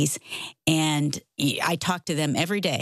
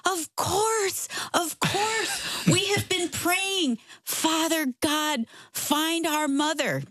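tearful relief; 12 semitones higher, much slower than usual. Retold or imitated. Relieved son-in-law, emotional outburst.

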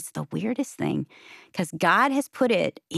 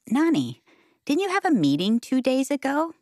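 lightly voiced small boy, pitched up; a hint of a little child's higher voice; three-year-old grandson; 8 semitones higher than usual. Three-year-old asks grandma about her meeting, lightly childlike. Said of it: "he just turned three".

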